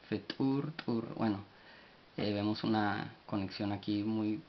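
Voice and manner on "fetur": fetur with a popped T and raised pitch; careful higher demo of fetur; explosive T. Shown as a demonstration. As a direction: pop the T into -ur in fetur. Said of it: "T explosiva U".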